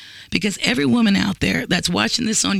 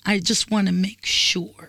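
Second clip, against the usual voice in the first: slow, deliberate mimicry; mock mansplainer; 2 semitones lower, slower than usual. Woman quoting men's favorite excuse back, slow and mocking. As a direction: draw it out, quoting him back. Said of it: "You said that again".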